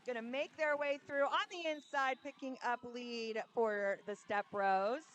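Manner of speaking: lifted call, stretching out the finish; live play-by-play. Real, not acted. Announcer calls lead for Step Bros, energetic play-by-play. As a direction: call the breakthrough with energy, then draw it out.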